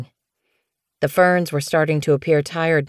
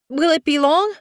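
much higher, strained croaking voice; croaked; 12 semitones higher than usual. Acted. Snowfur in labour asking the medicine cat, strained croak. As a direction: croak it through the pain. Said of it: "she croaked".

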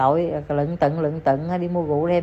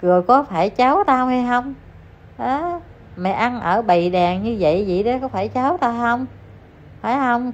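imagined scolding grandmother; 4 semitones higher than usual. Retold or imitated. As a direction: scold her like a furious mother-in-law. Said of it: "bà nói cho đội quần". (giọng bà nội mắng, cao hơn)

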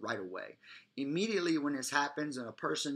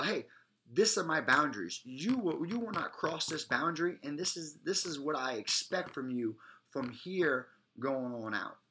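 firm. Shown as a demonstration. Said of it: "letting them know right away".

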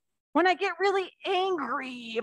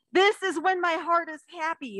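put-on reading to children; 3 semitones higher than usual. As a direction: draw the little ones into the story. Reads picture book to children.

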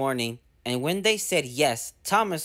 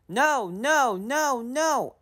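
high, squealing refusal; mischievous trucks refusing; defiant trucks; 9 semitones higher, much slower than usual. Acted. Trucks to Thomas, refusing in high squeals. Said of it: "answered the trucks".

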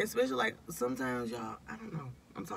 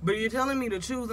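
mock exasperated complaint, pitched up; exasperated retelling; 3 semitones higher than usual. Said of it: "I was like".

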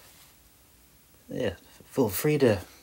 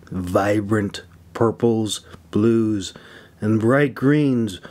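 measured audiobook reading, lingering on descriptions; story narration; 3 dB louder, slower than usual. Acted. Author reading his fantasy chapter aloud to listeners, steady storytelling narration. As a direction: read it like an audiobook narrator setting the scene.

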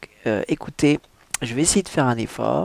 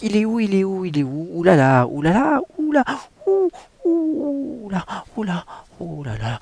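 frantic character voice; 8 semitones higher than usual. Acted. Reading the book aloud, a high, frantic heroine. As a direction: voice the heroine hunting for her lost tiara. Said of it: "quelqu'un qui bégaye".

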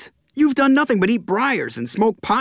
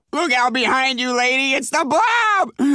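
warning shout at the screen; alarm shout; 4 semitones higher than usual. Acted. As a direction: yell a warning to the lady. Shouting at TV monster.

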